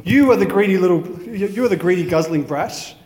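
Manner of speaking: put-on lively, measured children's verse recital; poem reading. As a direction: read the rhyme out to listeners, lifting line openings. Reads a poem aloud.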